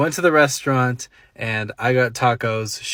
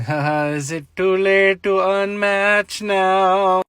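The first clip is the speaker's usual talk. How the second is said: mock dismay; 4 semitones higher, slower than usual. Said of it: "And I'm thinking".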